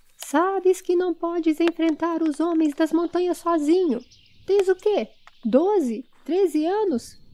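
high-pitched shouted call. Someone calls out to a boy who is throwing stones: shouted again. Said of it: "Haled gritou novamente".

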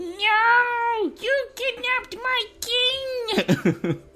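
very high squirrel voice, stretched-out "no". Reading a listener's message, speaker voices the squirrel: squirrel voice. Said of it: "it must be saying a Squirrel voice".

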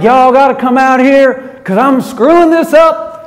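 genuine Texas drawl. Retelling a phone call from a new CEO, in a Texas drawl. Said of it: "Texas draw. I'm not even making this accent up".

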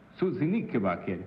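Italian-style pronunciation. Asked to say a name in Italian, answering with Italian pronunciation. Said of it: "Say Suzy Knickerbocker in Italian".

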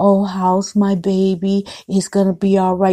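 gentle, soothing voice. Retelling how a father talked to his crying newborn: imitating a father's gentle voice. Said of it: "He had a, a gentle voice".

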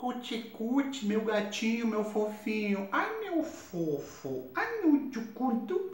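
high, slow, cooing mock baby talk.

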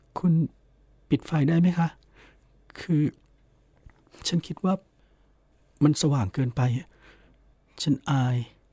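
soft, high, faint pleading tone trailing off. She turns to face him and speaks, faint, pleading for sympathy. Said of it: "คำสุดท้ายเสียงแผ่วราวกับขอความเห็นใจ".

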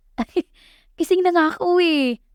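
speaking through a laugh. Just come to, the narrator answers someone scolding her in tears; laughing reply. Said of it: "Tumatawang sagot ko".

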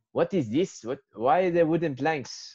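put-on French accent. Retelling the supervisor's late-night puzzlement over wooden planks: imitating supervisor's french accent. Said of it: "that's his French expression for it".

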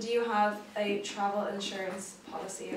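ordinary talk

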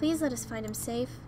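ordinary delivery

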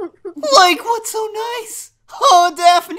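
loud, lazy cartoon sidekick drawl, every word stretched. Doing a voice while looking for Scooby, Shaggy voice. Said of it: "He's so much Shaggy".

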